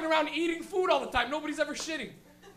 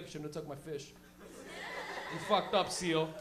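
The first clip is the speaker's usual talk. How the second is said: mock Pingu gloat; 8 semitones lower, 5 dB quieter than usual. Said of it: "he'd be like".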